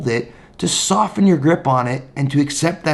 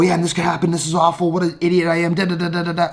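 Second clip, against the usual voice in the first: spiraling self-talk; 4 semitones higher, faster than usual. Retold or imitated. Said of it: "and I go".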